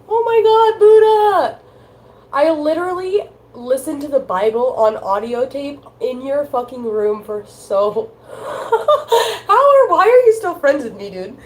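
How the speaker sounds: high, loud, laughing embarrassment; laughing outburst. Real, not acted. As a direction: shout it through real laughter.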